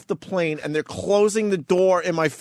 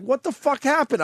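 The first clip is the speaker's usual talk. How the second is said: stunned disbelief; 10 semitones higher than usual. Retold or imitated. Retelling shock at gate.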